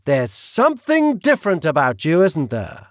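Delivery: British villain voice. Acted. The Duke speaks.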